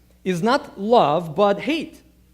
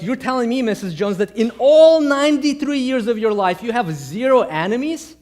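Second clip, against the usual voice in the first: incredulous pastor; 4 semitones higher, 4 dB louder than usual. Retold or imitated. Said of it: "Your pastor's like".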